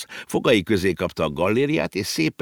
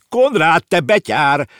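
high, loud scolding shout; 10 semitones higher, 7 dB louder, slower than usual. A narrator's reading. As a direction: call him back, half angry. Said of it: "kiabálta a bácsi". (magas, hangos szidó kiabálás)

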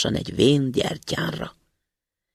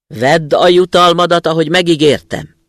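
a szellem hangja; 4 semitones higher, 10 dB louder than usual. A narrator's reading. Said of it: "szólt le a diákhoz".

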